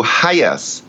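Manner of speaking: "Hayas" drawn out slowly, with no r sound; butchered name pronunciation. Retold or imitated. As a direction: stretch out "Hayas" as the mangled name. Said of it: "absolutely butcher the name into".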